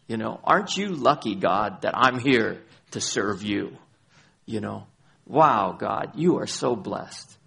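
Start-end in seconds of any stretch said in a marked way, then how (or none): 0.4-3.8 smug. Retold or imitated. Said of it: "our approach to God is". 5.2-7.4 smug. Retold or imitated. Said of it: "our approach to God is".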